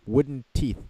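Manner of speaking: high, loud mock British accent. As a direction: sneer in a hammed-up British accent. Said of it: "talking in a British accent".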